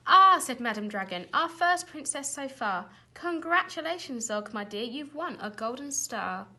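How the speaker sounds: high, loud congratulations; proud teacher exclaiming; delighted praise. A narrator's reading. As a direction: beam at the pupil. Teacher praising Zog loudly.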